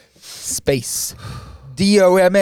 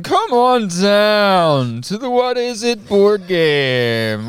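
announcer voice; slower than usual. Acted. Announcer for game.

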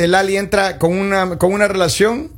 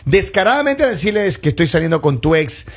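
reading aloud; 3 semitones lower than usual. Real, not acted. Host reads experts' advice to co-hosts, reading aloud.

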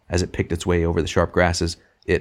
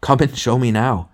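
laughter in voice; 6 semitones higher, 4 dB louder than usual. A narrator's reading. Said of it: "said the other with laughter in his voice".

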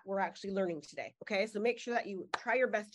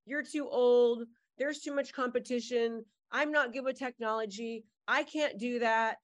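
negative inner voice. Retold or imitated. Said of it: "or it says".

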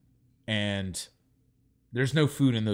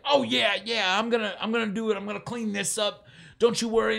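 put-on higher, breezy old woman brushing it off; sing-song old lady; 8 semitones higher than usual. Old homeless lady breezily promising to clean up, higher sing-song. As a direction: play the lady dismissing him cheerfully.

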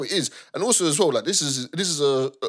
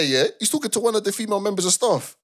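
normal talking voice

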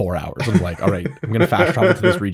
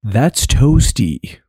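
loud, slow, stretched-out toasty; playful drawl; 5 dB louder, much slower than usual. Pretend. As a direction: draw out the word toasty for comic effect. Drawn-out joke on the heat.

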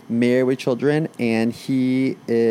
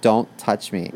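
mock shout; slower than usual. Couple's quarrel over snuggling.

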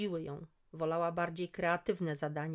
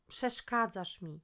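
sleepy; slower than usual. Acted. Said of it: "zaspanym głosem".

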